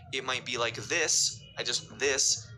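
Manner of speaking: "this" said with extra lip movement; over-articulating one word. Shown as a demonstration. Coach over-articulating one word, "this", with crisp lips. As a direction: shape the lips hard on "this". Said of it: "On that one word".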